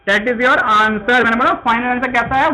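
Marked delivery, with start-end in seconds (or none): 0.1-1.1 That is your answer said slowly and deliberately; measured teacher emphasis; slow, emphatic. Shown as a demonstration. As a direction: land the answer firmly, word by word. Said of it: "गुणवान".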